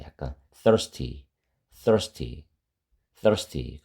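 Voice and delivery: "thirsty" with the tongue tip slightly between the teeth; slow, careful "thirsty" with th between teeth; th sound. Shown as a demonstration. Teacher drills students on the th in "thirsty". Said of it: "혀끝이 약간 이빨 사이에".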